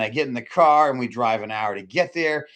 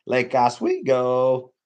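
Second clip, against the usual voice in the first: drawn-out mock fancy; 3 dB louder, much slower than usual. Savoring fancy lake name.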